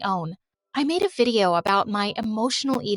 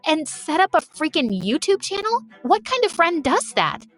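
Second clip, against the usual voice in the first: raised, higher accusing voice; angry confrontation; 4 semitones higher than usual. Acted. Lena confronting Freya at the party: raised angry accusation. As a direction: confront the betraying friend.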